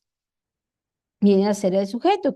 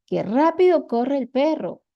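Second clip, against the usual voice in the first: emphatic exclamation; 4 semitones higher than usual. Shown as a demonstration. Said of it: "tienen una entonación enfática".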